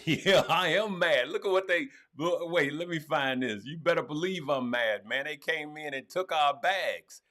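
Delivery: riled up with a laugh at the start; half-amused indignant rant; laughing mad. Real, not acted. Streamer tells viewers they took our bags, laughing mad. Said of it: "Bunk Daddy is mad".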